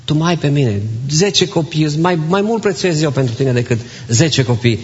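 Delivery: a touch of tender comfort; gentle reassurance. Retold or imitated. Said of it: "îi spune".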